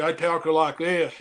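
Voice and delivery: slow, twangy British accent imitation. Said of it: "he's got the twang in his accent".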